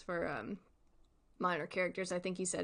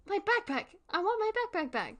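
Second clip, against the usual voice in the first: put-on high, louder little-kid wail; whiny kid shout; 12 semitones higher, 4 dB louder than usual. Kid shouting at the villain for his backpack, high tantrum wail. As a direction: yell it like a kid throwing a tantrum. Child demanding backpack in skit.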